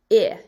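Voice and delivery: "I" said as a short ih; short I sound. Shown as a demonstration. Teacher isolates the vowel of kit, "I" as short ih. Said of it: "you hear me saying the I as".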